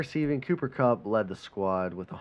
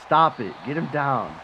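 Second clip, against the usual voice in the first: angry yell; 2 semitones higher, 6 dB louder than usual. Real, not acted. Yelling at the TV during game.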